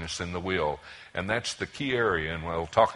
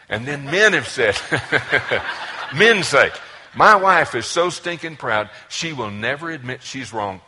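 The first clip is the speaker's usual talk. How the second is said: laughing loudly through the words; can barely get it out for laughing; high and loud with laughter; 5 semitones higher, 12 dB louder than usual. Real, not acted.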